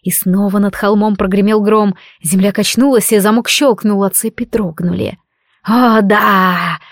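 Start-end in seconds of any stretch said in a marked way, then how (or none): 5.6-6.8 gleeful squeak. Acted. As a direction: squeak it out, barely holding in the joy. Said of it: "едва не запищало от радости".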